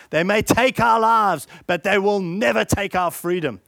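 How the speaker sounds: stirring Wallace speech. Acted. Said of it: "Wallace says".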